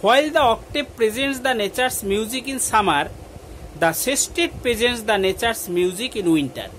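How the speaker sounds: slow, measured reading of a model answer; dictation reading. Acted. Teacher contrasting octave and sestet for pupils, slow dictation. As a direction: read slowly so students can copy.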